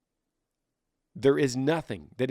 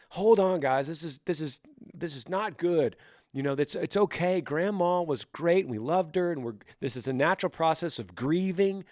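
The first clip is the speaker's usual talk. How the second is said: raised-pitch mock mediator; placating peacemaker; 4 semitones higher than usual. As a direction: step in to calm an argument, lightly acted. Reasonable brain side calming the argument.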